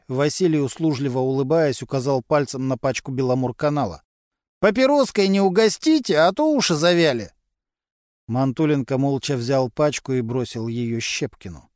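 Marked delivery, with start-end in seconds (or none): 4.6-7.3 higher, rough street voice of a petty crook; a sly garage lowlife gossiping to cops; Vasily, a gruff mechanic. A narrator's reading. Suspect gossiping to detectives, in a raised streetwise voice.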